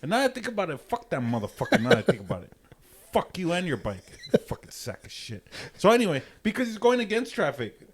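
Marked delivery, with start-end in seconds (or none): 0.8-5.5 laughing. Real, not acted. Laughing at the cyclist memory.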